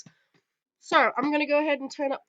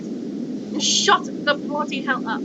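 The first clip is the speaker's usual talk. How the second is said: British accent; slower than usual. Real, not acted. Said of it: "I just talk in a fucking British accent".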